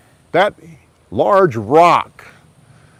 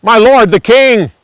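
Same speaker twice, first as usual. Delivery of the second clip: loud and higher, calling across the valley; yelled call; 8 semitones higher, 9 dB louder than usual. Acted. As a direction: shout after the king from the cave. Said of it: "David came out of the cave and yelled".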